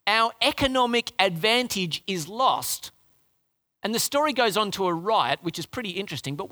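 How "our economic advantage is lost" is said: mock greedy men. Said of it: "The, the men think".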